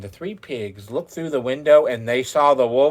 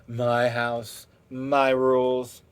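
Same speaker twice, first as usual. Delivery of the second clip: a hint of a firm mother pig, slowing down; the third pig lightly voiced, firm and deliberate; stern pig mother; slower than usual. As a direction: lay down the house rules, lightly voiced. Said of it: "she said".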